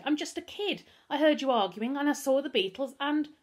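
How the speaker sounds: put-on high, loud boy's plea; desperate pleading. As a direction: plead innocence until cut off. Captive boy pleading his innocence.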